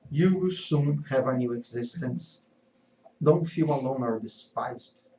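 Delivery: lightly voiced calm mother; a hint of serene motherly comfort. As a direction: reassure him gently, unhurried. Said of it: "And added, serene".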